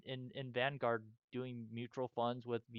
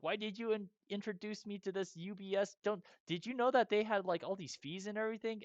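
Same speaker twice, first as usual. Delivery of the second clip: much higher, exasperated accusing question; upset complaint to aunt; 8 semitones higher than usual. Retold or imitated. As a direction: pitch it way up, betrayed and upset. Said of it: "I was like".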